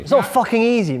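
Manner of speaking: mock outrage. Playful rage reaction.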